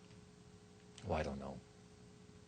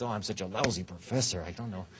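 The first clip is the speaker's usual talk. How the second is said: mock-humble, dropping softer at the end; overdone self-deprecation; 4 semitones lower, 3 dB quieter than usual. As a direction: put yourself down as a habit. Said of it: "if you try this every single sentence".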